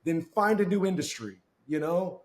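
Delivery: a mild mock lecture to the sales manager; scolding retort. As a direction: put the smart aleck in his place.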